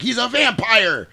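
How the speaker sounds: high, slow alarmed cry; alarmed mock shout. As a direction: warn everyone in a panic. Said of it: "he's like".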